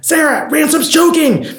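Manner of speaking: acted panicked shout, pitched high; high-pitched mock emergency yell; retold scream for help. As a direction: re-enact calling urgently to another room. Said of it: "I screamed out".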